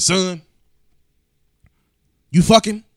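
sudden high loud question from the father; dad's shocked yell. Retold or imitated. Father catching his son, shouting high. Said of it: "He said".

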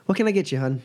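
high chirpy waitress voice; sweet bartender calling you hun; diner waitress. Acted. GM voices bartender asking order.

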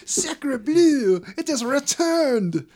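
put-on high, loud hammy French accent; bad French accent. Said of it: "They're like ... really bad".

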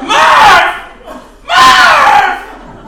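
high mock wail of Murph; mock sobbing cry. Alone on the couch, crying at Interstellar, hammed-up wail. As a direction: howl the name like a weeping movie dad.

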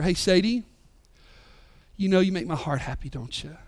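tender to daughter. Retold or imitated. Dad tucking daughter in.

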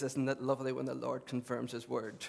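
lightly imitated Lurgan accent; a touch of a friend's Lurgan accent. Friend on the Lord confirming his word, imitated Lurgan accent. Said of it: "he talks like this".

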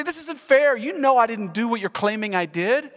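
mock protest of injured innocence; playing the victim. Preacher imagining himself before his accusers, playing the victim. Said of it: "I would play the victim card".

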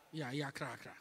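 "iya kra kra" said with a Xhosa click attempt; Xhosa word. Shown as a demonstration. Preacher trying the Xhosa for scary, with a click. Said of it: "Is that how the Xhosa say it?".

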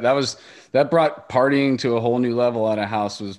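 laughing loudly while talking; loud laugh through the words. Real, not acted. Excited about house shows.

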